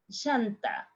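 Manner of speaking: llanta said as "shanta"; sh sound. Shown as a demonstration. Teacher demos tire with sh. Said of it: "in the three different ways".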